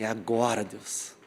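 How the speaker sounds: low, very soft aside to God; hushed anticipation. Retold or imitated. Boy facing his leader, praying to God, hushed. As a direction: drop to a hushed, low murmur. Retold awed prayer before leader.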